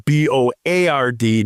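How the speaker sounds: "B O A R D" spelled letter by letter. Shown as a demonstration. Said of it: "not B O R E D".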